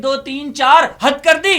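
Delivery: gleeful loud count; loud punchline. Acted. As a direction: land the punchline with a rising shout. Punchline of verse.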